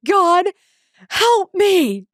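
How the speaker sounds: high, loud cry to God; stressed mom crying out to God in a loud, high plea; desperate scream. Retold or imitated. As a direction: throw it up to the sky at the breaking point. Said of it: "And I literally screamed".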